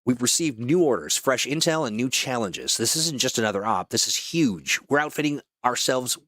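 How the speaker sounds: polished mission-briefing announcer; brief the crew like a game trailer; promo voice-over. Acted. Voice actor welcoming players to their next operation, announcer read.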